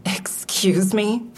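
slow, breathless whispered disbelief; shocked whisper. Acted. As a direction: let the words escape as a stunned whisper. Narrator taken aback by question.

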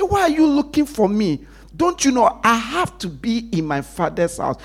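put-on a boy astonished they looked elsewhere; preacher voicing Jesus, high and ringing; Jesus' rebuke. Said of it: "Jesus was saying".

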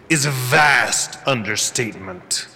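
measured menacing overlord; cold villain voice. Acted. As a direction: speak down with icy disappointment.

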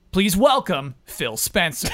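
slow, grand event announcer intro; fighting game announcer. Acted. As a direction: announce the guest like a big stage show. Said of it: "developing my announcer voice".

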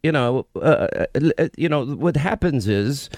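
halting, badly faked British accent; bad Katie imitation. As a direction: fumble through a British accent. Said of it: "is this your imitation of Katie".

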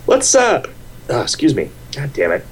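hiccup breaks the words; talking through hiccups. Real, not acted. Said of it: "I have the hiccups".

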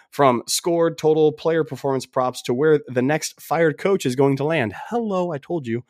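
upbeat sponsor read. Acted. Podcast host to fans, upbeat ad read.

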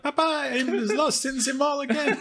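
put-on high, slow French child voice; French kid voice. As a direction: play a lost French kid. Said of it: "French voice actors for the kids".

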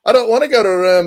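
retold protesting boy. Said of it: "And he's like".

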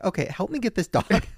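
retold plea with a laugh in it. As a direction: laugh through the request for help. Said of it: "And I'm like".

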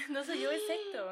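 mock child voice. Friend mimics the little boy blaming Héctor, in a high childish whine. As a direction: whine it like a kid passing the blame.

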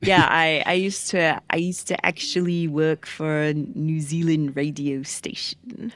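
rough put-on New Zealand accent. Co-host claiming New Zealand radio experience, put-on New Zealand accent. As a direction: keep up a shaky attempt at New Zealand vowels. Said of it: "it's getting better".

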